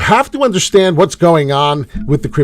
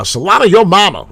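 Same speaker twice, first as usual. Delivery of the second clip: playful Solana call; 6 semitones higher, 6 dB louder than usual. Pretend. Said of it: "We love to say it like that".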